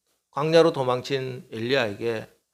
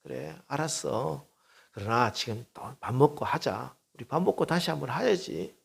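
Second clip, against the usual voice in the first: gentle encouragement; 6 dB quieter than usual. Retold or imitated. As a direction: lift him up gently. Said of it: "격려해 주십니다". (부드럽게 격려하듯)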